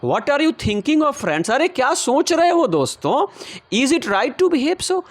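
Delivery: put-on high, slow plea of an old grandmother; pleading grandmother. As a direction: plead with the fighting neighbours, pitch up. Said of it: "क्या कहती हैं सुनिए".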